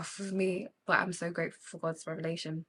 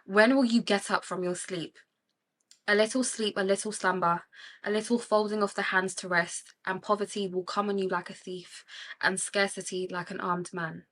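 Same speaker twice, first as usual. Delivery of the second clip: reading scripture. Shown as a demonstration. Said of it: "the Bible says".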